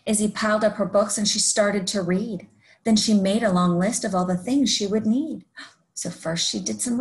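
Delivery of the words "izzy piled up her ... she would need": lively rhyming story read-aloud; picture-book narration. A narrator's reading. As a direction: read a rhyming tale to young children.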